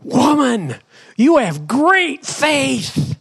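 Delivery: high, slowly drawn-out acclaim; exclaimed praise. Acted. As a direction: proclaim it with wonder, stretching the words. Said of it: "Then Jesus said".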